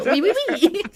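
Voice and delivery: laughing cartoon French skunk accent; Pepe Le Pew. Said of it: "ooh, Pepe Le Pew".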